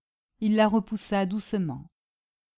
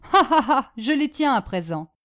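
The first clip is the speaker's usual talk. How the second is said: triumphant laugh; 4 semitones higher, 5 dB louder than usual. Acted. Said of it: "Madame Bombec riait".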